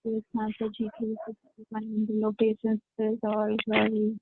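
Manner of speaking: faint, distant voice on the line; sounding far off from the phone; far away. Real, not acted. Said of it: "you sound so far away".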